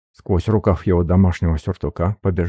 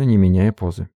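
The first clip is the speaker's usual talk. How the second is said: plain reading voice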